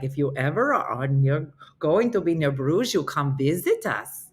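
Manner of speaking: put-on lilting Belgian accent with lifts at the ends; lightly imitated Belgian English. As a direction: let everything go up, Belgian-style. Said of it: "Everything goes up".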